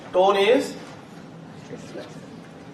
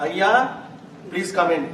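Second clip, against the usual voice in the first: respectful; slower than usual. Shown as a demonstration. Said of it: "Respect, politeness".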